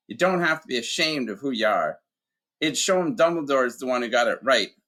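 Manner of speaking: a big man remembering his dad; Hagrid, gruff giant. Acted.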